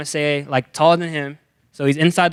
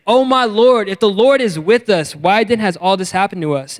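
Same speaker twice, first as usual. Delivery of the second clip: anguished plea; 4 semitones higher, 4 dB louder than usual. Acted. Gideon's anguished protest read.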